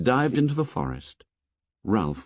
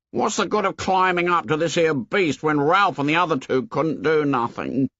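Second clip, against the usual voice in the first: put-on higher boy's voice, earnest and insistent; a lightly raised Piggy, pressing his point; 7 semitones higher than usual. A narrator's reading. Piggy addressing the assembly, insistent and higher.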